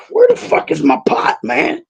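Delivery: high-pitched mock outrage at the missing pot; retold angry yell. Retelling to podcast host, angrily demanding where his pot went. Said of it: "And I'm like".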